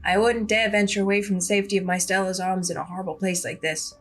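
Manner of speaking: lightly voiced prim, proper cat; a hint of a haughty talking cat; mildly put-on refined cat; Gretchen the cat. Gretchen addresses Big Bumbo.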